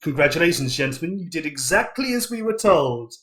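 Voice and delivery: measured, understated evil mastermind; a hint of sinister satisfaction; lightly voiced villain. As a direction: congratulate them as the villain who planned it. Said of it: "with an evil glint and they go".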